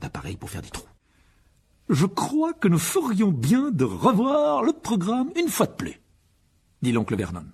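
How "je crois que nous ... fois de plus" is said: high, loud, slow instructions; bossy pompous uncle. Acted. Uncle making the family rehearse the dinner plan, pompously bossy. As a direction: call the household to order with ceremony.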